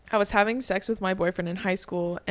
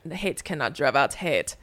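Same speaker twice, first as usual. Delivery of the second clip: lightly voiced earnest man making a pronouncement; imitating men. Mocking men who quote platitudes, imitated man voice. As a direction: mimic a dumb bro being profound. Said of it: "when I copy, like, men".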